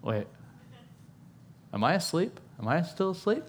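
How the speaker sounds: like waking from a dream, unsure what's real; groggy Peter. Retold or imitated. Peter stumbling from prison, asking himself if he dreams, dazed. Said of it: "he goes".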